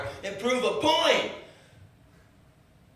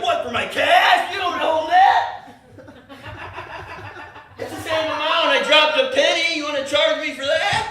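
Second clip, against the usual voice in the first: indignant rant; 12 semitones higher, 9 dB louder than usual. Retold or imitated. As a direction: rant at him loudly, outraged by the receipt check. Retold rant at the receipt checker.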